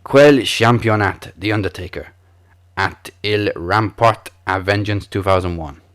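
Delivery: reading in a bumbling French accent; dummy your way through in French. Shown as a demonstration. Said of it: "let me do my best French accent as I".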